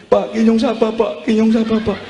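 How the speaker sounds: a hint of a pestering child; child questioning father. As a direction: ask the dying father insistently. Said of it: "Malah takon".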